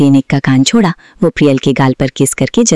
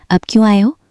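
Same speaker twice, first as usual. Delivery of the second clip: sulky; 7 semitones higher than usual. A narrator's reading. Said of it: "मुंह फुलाए बैठी थी".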